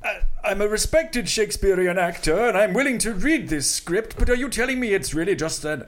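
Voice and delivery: a plummy Shakespearean actor voice; lightly voiced grand old thespian; mock olde english. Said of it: "Is that what Derek Jacobi sounds like?".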